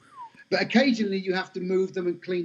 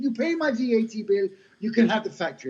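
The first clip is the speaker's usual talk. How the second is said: higher, badly faked Jamaican accent; crap Jamaican accent; 6 semitones higher than usual. Owner offering Sean her factory, mock Jamaican accent. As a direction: mimic an older Jamaican woman striking a deal. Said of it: "This is my crap Jamaican accent".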